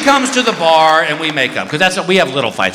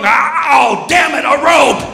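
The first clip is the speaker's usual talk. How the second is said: panicked yelp; 7 semitones higher, 3 dB louder, slower than usual. Retold or imitated. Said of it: "he's gonna get the rope".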